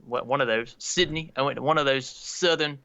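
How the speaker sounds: groping through a badly faked Aussie accent; hesitant put-on Australian accent; amateur Australian accent; attempted Australian accent. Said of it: "natural Aussie accent already".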